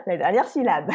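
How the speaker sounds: "la dernière syllabe" with its final syllable stretched; lengthened last syllable. Shown as a demonstration. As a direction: let "syllabe" run long at the end. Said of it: "on a tendance à allonger la dernière syllabe".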